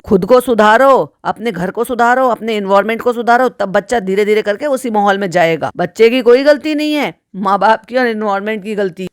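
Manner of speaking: ordinary delivery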